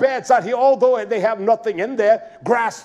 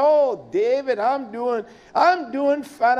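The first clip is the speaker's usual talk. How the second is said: put-on old woman voice; 3 semitones higher, slower than usual. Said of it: "That's the way she talks".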